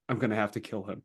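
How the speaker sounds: retold annoyance, kept under the voice; annoyed Horus. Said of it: "Horus is just so annoyed".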